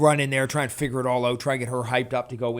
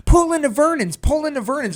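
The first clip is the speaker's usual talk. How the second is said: high, loud, urgent imitation; urgent direction; 12 semitones higher, 7 dB louder than usual. Passenger telling the driver where to turn, urgently. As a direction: call out the turn as if it's nearly missed.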